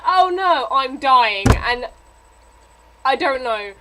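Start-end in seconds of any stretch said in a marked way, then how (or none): 0.1-1.5 mock dying. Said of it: "she's like".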